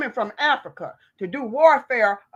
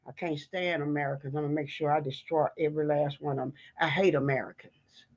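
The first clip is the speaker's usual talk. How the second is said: low, soft sneering villain voice, much lower and softer; mock villain voice; 11 semitones lower, 9 dB quieter than usual. Voicing Elon Musk's hatred to her viewers in a low sneer. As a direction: growl it out like a cartoon villain who hates everyone. Voicing Elon's hateful words.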